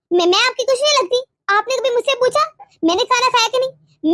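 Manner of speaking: hurt, accusing tirade; angry reproach. Acted. Wife accusing husband of caring only for his mother, angry reproach. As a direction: pile up the grievances at him accusingly. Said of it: "ये तुम किस लहजे में बात कर रहे हो".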